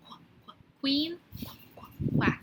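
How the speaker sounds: soft qu, qu, quack drawn apart; teacher sounding out a letter. Shown as a demonstration. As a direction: isolate the qu sound. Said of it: "It's a Q".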